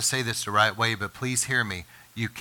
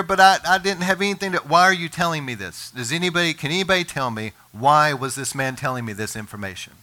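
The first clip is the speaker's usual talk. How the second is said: rising angry outburst, higher and louder; getting mad; 4 semitones higher, 4 dB louder than usual. Retold or imitated. Pastor angrily rebuking a gossiping acquaintance, loud and exasperated. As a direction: let the frustration burst out, pitch climbing. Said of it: "now I'm starting to get mad".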